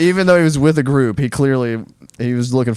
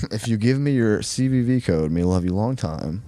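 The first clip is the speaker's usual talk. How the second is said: mock broken English; 3 semitones lower, 4 dB quieter than usual. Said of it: "fake Chinese lady".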